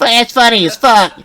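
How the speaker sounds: high, loud retold delight; amused outburst. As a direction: blurt it slowly like a tickled viewer. Quotes amused viewer reaction.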